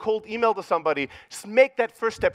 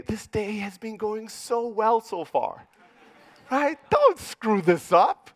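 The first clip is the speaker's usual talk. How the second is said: cautious inner voice. Retold or imitated. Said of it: "my inner voice goes".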